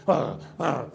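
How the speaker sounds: two mimicked frightened gasps; imitated startled gasps. Stranger startled by the preacher's stare, imitated gasps. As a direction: act out someone recoiling in shock. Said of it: "hizo así".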